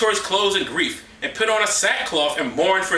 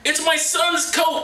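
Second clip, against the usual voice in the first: mock dramatic Jacob; 11 semitones higher, much slower than usual. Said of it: "He recognized it and said".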